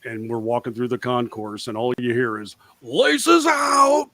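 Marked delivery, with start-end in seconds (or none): 2.8-4.1 fan calling out. Retold or imitated. Fans calling out at stadium.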